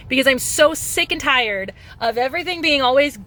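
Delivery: real irritated rant; angry rant. Real, not acted. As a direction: vent every grievance. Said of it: "I'm very angry".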